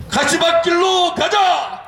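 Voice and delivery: slow, high shouted rally slogan; roaring rallying speech. Real, not acted. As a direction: bellow the slogan for the crowd. Leader leads chanted slogan. (구호를 외치는 우렁찬 연설)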